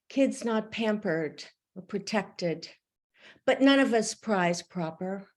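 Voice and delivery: measured poetry reading with phrase breaks; poem reading. Acted. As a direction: read it as a poem, line by line. Poet reads her poem aloud.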